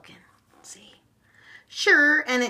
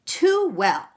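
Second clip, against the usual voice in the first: loud, higher curt snap; 8 semitones higher, 6 dB louder than usual. A narrator's reading. Leprechaun snapping at Meg about her relatives. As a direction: bite it off short. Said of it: "snapped the leprechaun".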